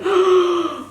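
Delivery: quick high gasp of delight. Real, not acted. Seeing the stunning palette, sudden gasp. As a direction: gasp at the colours.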